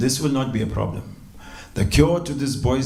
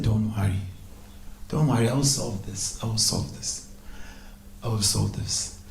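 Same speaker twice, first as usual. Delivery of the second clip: reassuring; 5 dB quieter than usual. Acted. Krishna reassures a distressed Radharani.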